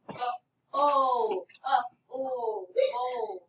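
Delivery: "uh, oh" as isolated sounds, short schwa then the sound gliding into L; schwa sound demo. Shown as a demonstration. Teacher lets pupils hear the schwa before L, "uh, oh" sounded out. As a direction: sound out "uh, oh" slowly in separate pieces. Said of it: "that you hear between the B and the L".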